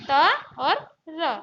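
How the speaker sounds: "त और र" drawn out slowly and loud, each sound apart; slowly spelled out. Shown as a demonstration. Teacher spelling "त और र" out for pupils, slow and loud. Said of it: "जैसे".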